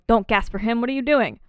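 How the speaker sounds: lightly acted reprimand; mild mock scolding. Host quoting Jake to gasping Charles, mildly exasperated.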